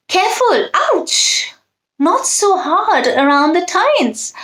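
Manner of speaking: a tiny fork wincing at rough polishing; complaining fork. A narrator's reading.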